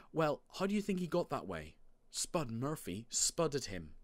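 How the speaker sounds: put-on high kid voice, then slowing down; insistent child Marty.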